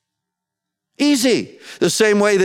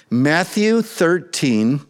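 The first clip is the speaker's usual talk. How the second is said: slow reference; much slower than usual. Shown as a demonstration. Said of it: "you probably wanna mark it down".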